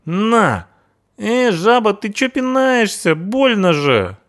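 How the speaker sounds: veel hoger, jammerend punkerstemmetje; punk in pain. Acted. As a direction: klaag als een geschopte punker.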